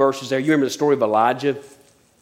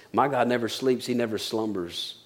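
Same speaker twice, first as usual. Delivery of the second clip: soft reading; 2 semitones lower, 6 dB quieter than usual. Acted. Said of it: "Psalm one twenty-one says".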